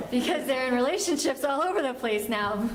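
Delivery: talking through a real laugh; amused. Real, not acted. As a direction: chuckle along at your own joke. Laughs at own joke.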